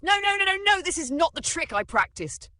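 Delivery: loud, high frantic outburst; panicked. A narrator's reading. Magician whose trick went wrong, panicking. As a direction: blurt it in rising panic.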